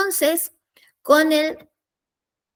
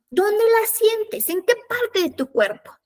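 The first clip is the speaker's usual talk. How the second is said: gentle probing; 6 semitones higher than usual. Shown as a demonstration. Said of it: "le vamos a decir".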